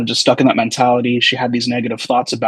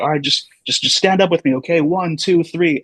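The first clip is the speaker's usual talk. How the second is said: higher-pitched retold count-in; lightly acted encouragement, pitched up; coaching; 5 semitones higher than usual. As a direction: re-enact coaxing a patient to stand. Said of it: "I was, like, sweating and everything".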